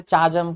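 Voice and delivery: चाजम said with a ch sound; चाजम with ch at the start; mispronounced चाजम, ch sound; wrong chaajam. Shown as a demonstration. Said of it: "ना तो चाजम है".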